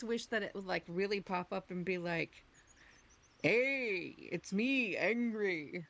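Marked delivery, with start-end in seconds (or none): 3.4-5.8 mock go-live announcement, punchy opening; imitating streamer announcer. Impersonating a friend's announcer voice, lightly voiced. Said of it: "my terrible impersonation of you".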